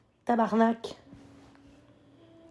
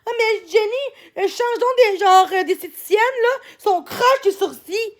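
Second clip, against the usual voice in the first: mocking Drouin; 4 semitones higher than usual. Streamer mimicking Drouin's taunts to her chat, mocking. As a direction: sneer it like the woman who always teases you. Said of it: "comme qu'a dit Drouin souvent".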